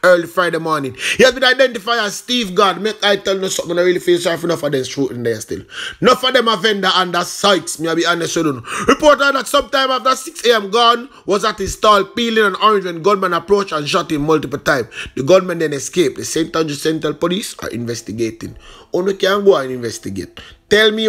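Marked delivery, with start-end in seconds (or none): 0.0-2.8 crisp newsreader delivery of a headline; news read. Acted. Reads a news item. 8.9-18.5 crisp newsreader delivery of a headline; news read. Acted. Reads a news item.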